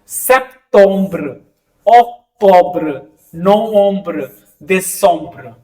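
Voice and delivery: slow French months with ombr endings; French month names drawing out the ombr ending. Shown as a demonstration. Teacher reading French month names, slow ombr ending. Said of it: "ओम्ब्र का sound ज्यादा है".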